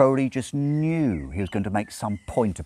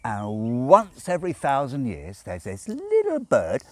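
raised, tipsy demon telling a tale; lightly voiced drunken Crowley; character voice for Crowley; 8 semitones higher, 5 dB louder than usual. A narrator's reading.

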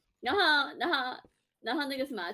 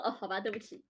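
soft, deflated, much quieter; aggrieved quiet apology; 5 semitones lower, 9 dB quieter than usual. Retold or imitated. Clerk apologising to the rude customer, quiet and aggrieved. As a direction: mumble a wronged sorry. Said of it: "我觉得很委屈".

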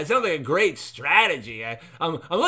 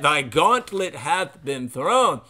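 mock archaic proclamation; slower than usual.

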